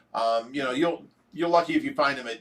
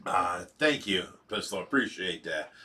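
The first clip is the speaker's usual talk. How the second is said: softer, lower, heartfelt thanks; sincere gratitude; 9 semitones lower, 7 dB quieter than usual. Real, not acted. Host thanking a viewer for prayers, sincerely grateful. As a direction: let it drop low and quiet, truly grateful.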